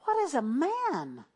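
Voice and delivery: slow, drawn-out wondering question; a lightly voiced awed angel. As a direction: let the angels marvel aloud, slowly. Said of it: "They said".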